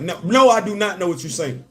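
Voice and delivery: exasperated retort. Retold or imitated. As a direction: push them to finish the sentence. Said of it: "'Cause it was like".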